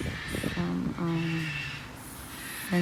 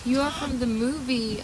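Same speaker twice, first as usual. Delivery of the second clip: pet talk; 5 semitones higher than usual. Real, not acted. Cooing at a parrot.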